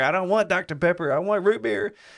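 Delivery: put-on shrill child's scream, very high. Retelling how a kid screamed at his mother at a restaurant: imitating a kid screaming. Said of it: "he's screaming at her".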